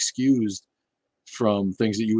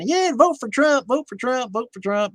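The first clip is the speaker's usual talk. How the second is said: mock preacher; 4 dB louder than usual. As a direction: mimic a megachurch pastor rallying the flock. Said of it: "getting up there and going".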